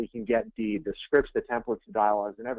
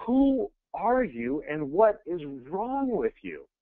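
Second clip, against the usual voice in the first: slow, higher, incredulous stranger; baffled caller; 4 semitones higher, much slower than usual. Retold or imitated. Annoyed homeowner calling back the agent, slow and incredulous. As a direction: demand it slowly, half shocked and half amused. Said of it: "first words out of the guy's mouth".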